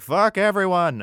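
loud, high mock war cry; defiant shout. Reader voicing five rebellious dudes, defiant shout. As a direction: yell it like a reckless gang.

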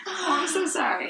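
giggling, high and soft; laughing apology. Real, not acted. Apologizing after fumbling the link.

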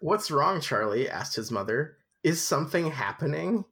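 measured storybook narration; story narration. A narrator's reading. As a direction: read it aloud like a novel. Reads the book aloud.

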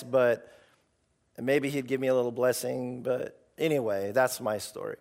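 unsure and apologetic, trailing off; timid mumble. Retold or imitated. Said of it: "it's lame".

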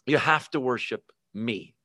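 a hint of a menacing tyrant; Antichrist voice. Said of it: "he's gonna say".

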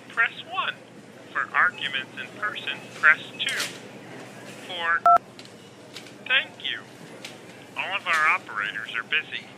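sweet recorded hold message. Acted. Phone hotline recorded message.

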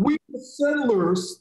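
slow, smug mock claim; mocking white people. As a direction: parrot their line with mild sarcasm. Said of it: "That's what they like to say".

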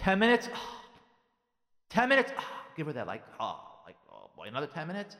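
mock put-upon disbelief with sighed ohs; exasperated. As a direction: react as if that's a huge imposition. Mimics exasperated reaction not to give.

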